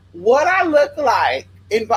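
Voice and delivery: offended yell; outraged retort; indignant shout. Retold or imitated. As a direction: yell back, insulted. Indignant at being asked.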